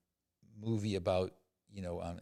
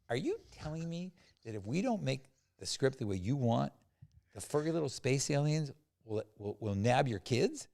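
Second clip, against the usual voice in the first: mock incredulity; 4 semitones higher than usual. Incredulous reply to the writer.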